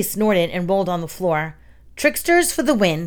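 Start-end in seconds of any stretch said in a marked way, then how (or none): 2.0-3.1 higher-pitched cheer; happy yip. A narrator's reading. Coyote rolls on the floor after snorting, yipping happily. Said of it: "he yipped happily".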